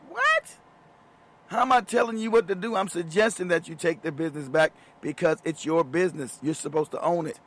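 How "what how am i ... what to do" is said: higher, incredulous; can't believe what he's hearing; disbelief. Real, not acted. His incredulous reply.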